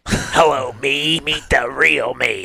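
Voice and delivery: slightly nasal singer impression; a rock singer. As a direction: mimic a nasal rocker, drawn out. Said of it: "he talks a little nasally".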